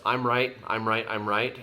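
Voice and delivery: mock the one who won't budge; mock stubborn insistence. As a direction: repeat I'm right like a stubborn child. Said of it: "There's just".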